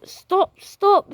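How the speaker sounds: high, loud cry to stop; urgent shout. A narrator's reading. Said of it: "said Miss Lovely".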